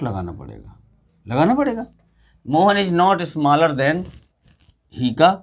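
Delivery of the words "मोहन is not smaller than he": very slow, words drawn apart as if writing them; slow dictation. Shown as a demonstration. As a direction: spell the sentence out for the board. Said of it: "teacher writes the answer aloud".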